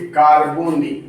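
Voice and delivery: कार्बोनिल ending in short "-nil"; model pronunciation. Shown as a demonstration. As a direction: demonstrate कार्बोनिल as kaar-bo-nil for students. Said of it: "pronounce आप ऐसे करोगे". (कार्बोनिल, अंत में छोटा "निल" बोलकर)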